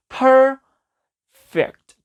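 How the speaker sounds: PER of "perfect" held long, high and loud, then a short fect; "perfect" broken in two, slow exaggerated stress on PER; drawn-out stressed syllable. Shown as a demonstration. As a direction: stretch and punch PER in "perfect", pause, drop on fect. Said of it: "강세가 여기 있어요. 그래서".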